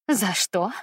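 a bitter, half-laughing echo; bitter smirk. Acted. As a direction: scoff at the question bitterly. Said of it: "Горько усмехнулась мама".

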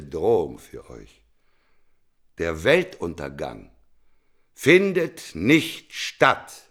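prophetic sermon. Acted. Prophet preaching doom to the crowd, full declamatory force. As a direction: preach it like a prophet cursing mankind.

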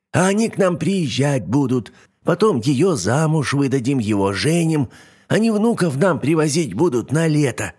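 put-on high hopeful old hag; old witch voice. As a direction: dream aloud like a witch. Yaga dreams.

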